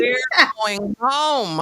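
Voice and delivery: slow firm mother's exit line; mock Mama Gia. Mama Gia dragging her son home, slow and firm. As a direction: drag it out as she storms off.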